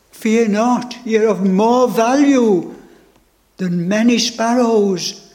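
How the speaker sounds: ringing, joyful proclamation; proclaimed triumph. Acted. Preacher proclaiming the Lord's promise to the congregation, ringing. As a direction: declare it to the whole room. Same words proclaimed aloud.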